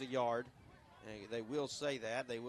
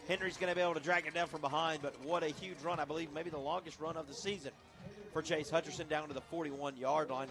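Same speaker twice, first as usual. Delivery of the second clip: excited call settling after a big run; live play-by-play; 3 semitones higher than usual. Real, not acted. Announcer describes a huge run to listeners, lively play-by-play. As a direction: keep the energy up while wrapping the play.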